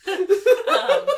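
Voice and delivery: high, quick words through giggles; real laughter bubbling through the reassurance; laughing. Real, not acted. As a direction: talk while cracking up. Laughing at co-host's slip of tongue.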